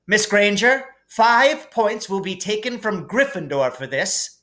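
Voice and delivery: high, clipped judgement; stern teacher. A narrator's reading. McGonagall takes points from Hermione, stern. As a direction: pronounce the penalty sternly.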